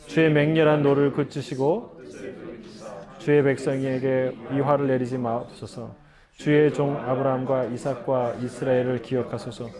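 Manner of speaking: even, level-toned Bible reading; scripture reading. A narrator's reading. Pastor reading the Bible passage to the congregation, evenly recited. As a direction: read the passage aloud in a steady monotone.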